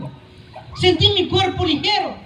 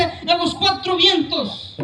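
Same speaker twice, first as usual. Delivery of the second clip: drawn-out call; slower than usual. Retold or imitated. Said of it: "cuando alguien grita".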